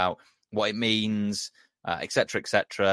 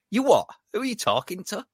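mock outrage; 12 semitones higher than usual. Mocking Klopp's touchy reaction.

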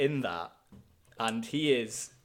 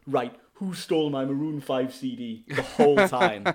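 laughing quote; 2 semitones higher, 6 dB louder than usual. Retold or imitated. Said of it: "All I could think of was".

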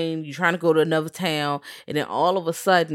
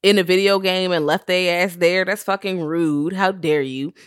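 indignant rant; 3 semitones higher, 3 dB louder than usual. Retold or imitated. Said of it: "I'm like".

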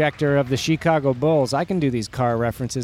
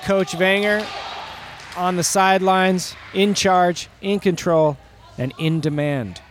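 sports commentator; 3 semitones higher than usual. Acted. Fake game commentary.

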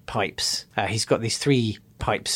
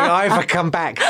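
mock crying; 5 semitones higher than usual. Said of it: "Crying and rocking to and fro".

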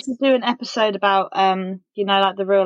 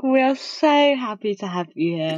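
mock sarcastic. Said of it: "You're like".

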